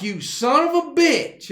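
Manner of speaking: playfully imitating a boss snapping at him; mock angry boss. Boss on the phone to worker who drank, mock angry. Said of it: "And he's like".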